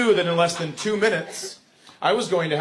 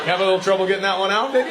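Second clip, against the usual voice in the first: mocking; 3 semitones higher, much faster than usual. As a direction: taunt him like a baby. Mocking son's stammer.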